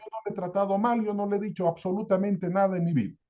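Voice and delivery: lightly voiced husband, quick, insistent denials; a hint of an indignant husband rattling off denials; defensive husband. Husband defends himself at hearing.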